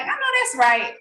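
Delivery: high, delighted I know that's right; excited agreement. Retold or imitated. Answering the leader with high delight. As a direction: cheer her on.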